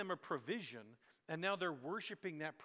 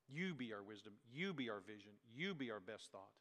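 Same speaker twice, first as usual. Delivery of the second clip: quiet prayer; 6 semitones lower, 7 dB quieter than usual. Retold or imitated. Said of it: "we pray through the lines of Be Thou My Vision".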